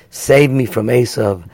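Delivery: closing prayer to the congregation; quiet prayer. Real, not acted. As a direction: pray it softly, from the heart. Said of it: "we pray the same prayer".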